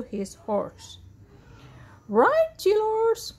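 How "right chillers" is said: high, drawn-out rallying call; rally the children loudly and slowly; leader's urgent cry. A narrator's reading. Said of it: "cried Grand Dude".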